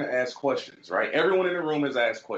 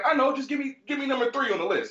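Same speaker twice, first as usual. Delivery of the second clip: impatient demand; 12 semitones higher, faster than usual. Retold or imitated. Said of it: "He's like".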